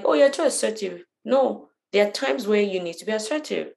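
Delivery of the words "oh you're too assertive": higher-pitched mock objection; retold complaint. Imitating people who object to assertiveness, mock complaint. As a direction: voice a critic's protest, lifted in pitch. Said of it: "they're like".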